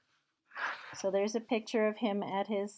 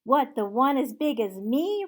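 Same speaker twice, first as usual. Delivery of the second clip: put-on higher, loud young boy; boy's voice; 5 semitones higher, 9 dB louder than usual. Boy in Sunday clothes answering Scrooge, high childlike. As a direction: answer as a surprised street boy. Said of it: "returned the boy".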